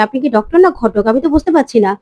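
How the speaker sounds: mildly angry scolding, pitch climbing mid-rant; understated indignant outburst at the doctor. Acted. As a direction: tell the doctor off, a touch heated. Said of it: "মিমি প্রচন্ড রেগে যায় আর বলে".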